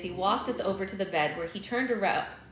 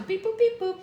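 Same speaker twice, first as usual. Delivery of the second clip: high beeping robot bleeps; toy robot voice; 12 semitones higher, 4 dB louder than usual. Pretend. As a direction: censor with robot beeps. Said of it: "Robot beep boop".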